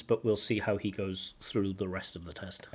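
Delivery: soft whispered comment; whispered aside. Real, not acted. Teacher whispers an aside to viewers.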